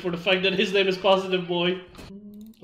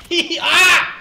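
laughing; 8 semitones higher, 8 dB louder than usual. Real, not acted. Laughing at a wild kill.

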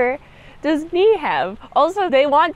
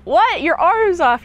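incredulous king; 5 semitones higher, 3 dB louder than usual. Retold or imitated. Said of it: "King Arthur being like".

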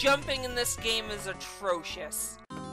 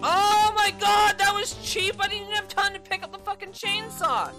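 raging gamer; 5 semitones higher, faster than usual. Real, not acted. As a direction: rant at the cheap game. Raging at game.

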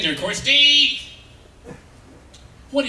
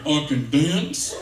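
ventriloquist dummy voice; 4 semitones lower, much slower than usual. Acted. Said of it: "he might sound a little something like this".

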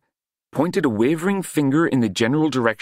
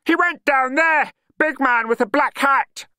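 shouting; 13 semitones higher than usual. A narrator's reading. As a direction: yell it out across the street.

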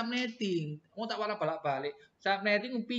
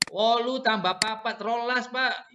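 revved up; 4 semitones higher, 5 dB louder, slower than usual. Real, not acted. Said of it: "tak usah ngegas".

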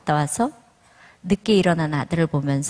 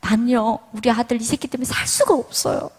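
higher-pitched, exasperated mock prayer; pleading prayer; 4 semitones higher than usual. Mother praying to God about her impossible son, exasperated pleading. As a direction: re-enact begging God in complaint. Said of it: "무슨 기도를 했냐면".

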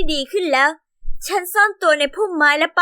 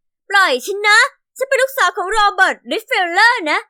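desperate shout; 4 semitones higher than usual. Acted. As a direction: yell it while kicking to get free. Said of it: "กรี๊ดเหมือนกับแมวคลั่ง".

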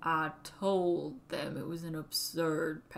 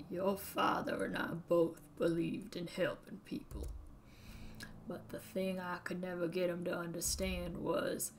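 put-on old Southern man voice; southern accent. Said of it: "when I do a southern accent".

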